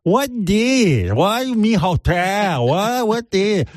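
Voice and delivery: high, drawn-out bewilderment; mock-naive high whine; Chinny impression. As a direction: question it high, hopelessly confused. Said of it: "she doesn't know what's going on".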